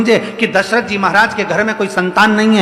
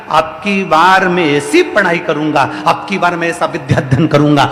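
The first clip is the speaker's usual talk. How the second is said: determined vow; 2 semitones lower than usual. Acted. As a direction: swear it with growing force.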